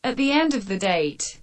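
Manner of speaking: text-to-speech reading; synthetic donation reader; robot voice read. Acted. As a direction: read it out like a computer voice. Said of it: "Friday will read it out, out loud, a robot voice".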